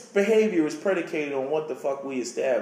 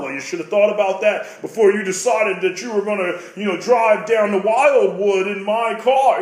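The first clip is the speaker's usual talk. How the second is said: mock scolding mother; 2 semitones higher, 4 dB louder than usual. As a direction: lay into him like a fed-up mom.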